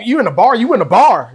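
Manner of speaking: high teasing repeat; sing-song "you in a bar"; playful sing-song. Pretend.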